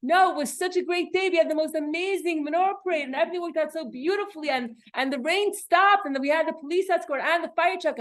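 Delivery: cheerful husband. Retold or imitated. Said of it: "And my husband's like".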